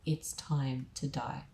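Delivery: slow, low imitation of a demonic threat; deep unnatural voice. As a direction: say it slowly in a mildly deep, eerie voice. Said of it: "say in this deep, unnatural voice".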